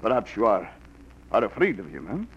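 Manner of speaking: woo her in a hammed-up Russian accent; seductive fake Russian. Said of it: "like the accent, the beard".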